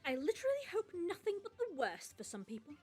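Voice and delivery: a hint of a bitter, ranting poster; lightly voiced angry ranter; dramatic rant reading. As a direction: read the rant like a wounded hothead.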